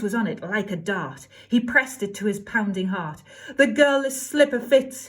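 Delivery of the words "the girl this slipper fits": crying out. Acted. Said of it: "he cried".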